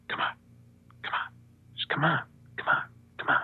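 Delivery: very soft, spaced-out coaxing; quiet imitated beckoning, with pauses; hushed beckoning. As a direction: gently urge them over, barely voiced. Imitating Jesus waving him in.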